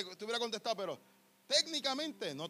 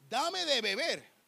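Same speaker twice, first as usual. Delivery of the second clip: slow request; 4 semitones higher, 4 dB louder, much slower than usual. Acted. Woman's request retold again.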